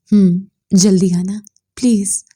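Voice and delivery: lightly crying. Acted. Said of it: "महरोश ने रोते कहा".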